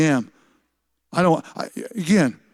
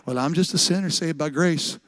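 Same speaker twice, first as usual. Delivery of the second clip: mildly mocking, softer voice; silly excuse; 2 semitones lower, 5 dB quieter than usual. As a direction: toss off a pious excuse quietly. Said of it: "we say silly things like".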